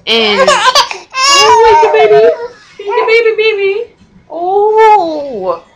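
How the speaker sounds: high, loud cooing. Real, not acted. Cooing to crying baby.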